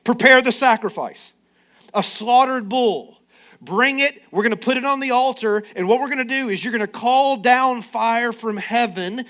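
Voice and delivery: loud commanding call; Elijah's commands. Acted. Elijah to the prophets, loud and commanding. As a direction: bark out the terms like a challenger. Elijah sets the contest terms.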